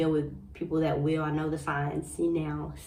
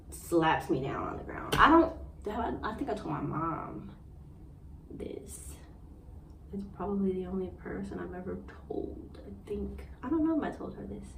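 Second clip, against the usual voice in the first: much softer, almost whispered; hushed; 8 dB quieter than usual. Real, not acted. Woman admitting abuse she rarely tells, hushed confession. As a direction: confide it under her breath.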